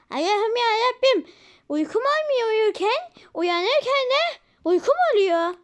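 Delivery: put-on high, slow whining little girl; high drawn-out child's complaint; sleepy child whine. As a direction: whine it out like a tired kid.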